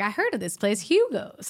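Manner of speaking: excited, put-on Texas accent, sing-song. Voicing people in a corner booth, in a Texas accent. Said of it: "Is that your Texas accent?".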